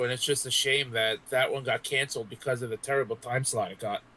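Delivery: ordinary delivery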